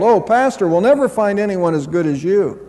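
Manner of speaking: mild mock wail; retold wail. Churchgoer to departing pastor on his last Sunday, mildly wailing. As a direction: wail it lightly, as if retelling. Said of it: "who wailed".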